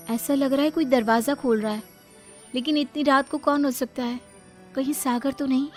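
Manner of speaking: slightly high, hopeful musing; lightly voiced anxious bride; wondering young wife. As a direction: wonder to yourself who's there.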